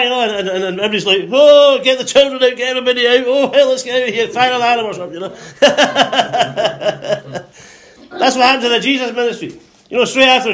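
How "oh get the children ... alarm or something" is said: high, hammed-up panicked cries; urgent high-pitched mock evacuation. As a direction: play a congregation fleeing in alarm. Acts out panicking congregation.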